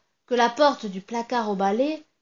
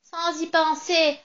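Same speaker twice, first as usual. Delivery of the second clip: slow, higher, scornful echo; mocking sneer; 6 semitones higher, slower than usual. Witch mocking the narrator's excuse, slow and sneering. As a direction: sneer his words back at him slowly. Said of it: "Elle ricane doucement".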